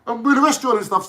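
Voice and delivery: high, laughing mock show-off voice; mocking Ditchy. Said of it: "He's like".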